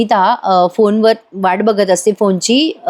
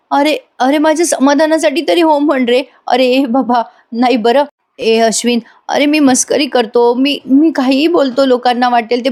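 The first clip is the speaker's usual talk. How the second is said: higher-pitched, insistent begging; desperate pleading; 5 semitones higher than usual. Retold or imitated. Chaitanya begging Ashwin to save Arjun, desperate pleading. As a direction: plead in a raised, urgent voice. Friend begs for reassurance about Arjun.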